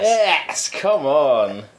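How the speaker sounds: high, excited football cheer; colloquial cheering. Real, not acted. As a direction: cheer like a fan at a match. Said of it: "I was cheering in a colloquial way".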